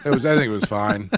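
lightly imitated hesitant bluffing; stuttering, unsure of himself. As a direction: restart the phrase, unsure. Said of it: "exact same stuttering".

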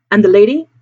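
abrupt. Acted. Sailor suddenly asking after the lady, abrupt. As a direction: cut in with a sudden question. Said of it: "said Will abruptly".

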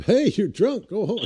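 loud, high call across the street. Retold or imitated. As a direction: holler it at the deer from the car. Repeating the call to the deer.

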